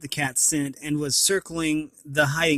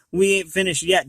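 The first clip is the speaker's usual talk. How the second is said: growling threat; 3 semitones higher, 4 dB louder than usual. Acted. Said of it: "still growling".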